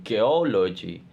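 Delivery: "geology" with stress on O, just before logy; pre-suffix stress. Shown as a demonstration. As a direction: lean on the O of "geology", then logy. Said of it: "Stress pattern".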